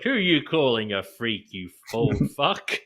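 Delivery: hammed-up British insult, breaking into a laugh; British accent. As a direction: put on a cheeky Cockney for the quote. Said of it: "In a British accent".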